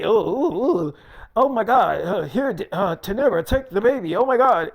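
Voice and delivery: hammed-up panicky yelps, passing the baby off; mock scared dad. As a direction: mimic him squirming in mock fright at a newborn. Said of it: "Yes, the hell that is. That's how you be".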